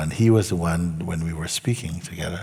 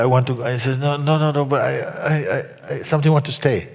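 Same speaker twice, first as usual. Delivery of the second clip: louder and higher, hammed-up inner tug; mock torn plea; 7 semitones higher, 4 dB louder than usual. Student tells the teacher part of him wants to stay, mock torn. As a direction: act out the student's flip-flopping.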